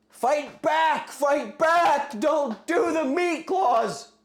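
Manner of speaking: high, loud drawn-out yell; yelling protest. Real, not acted. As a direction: plead loudly, stretching the words. Yelling protest at chat vote.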